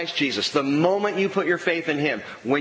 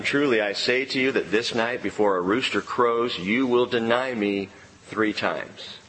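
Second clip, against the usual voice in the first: lightly voiced solemn Jesus; 4 semitones lower than usual. Jesus foretelling Peter's denial.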